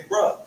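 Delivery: "Bruh" said with a short uh vowel, like bruh; Hartford "bruh". Shown as a demonstration. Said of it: "We say".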